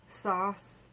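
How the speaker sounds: Thoth said with a hissed s opening, like "sawth"; alternative pronunciation. Shown as a demonstration. Listing ways she has heard it, alternative pronunciation. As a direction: say Thoth roughly as "sahth". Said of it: "I've heard it pronounced all those ways".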